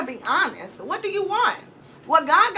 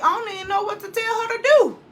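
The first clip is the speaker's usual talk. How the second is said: flustered quote; 7 semitones higher, much faster than usual. Retold or imitated. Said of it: "I'm like".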